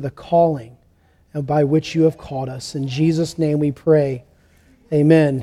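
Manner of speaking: measured, earnest pastoral prayer; public prayer. Real, not acted. Pastor asking the Lord to bless the reading, prayerful. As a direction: pray on behalf of the room, pausing between petitions.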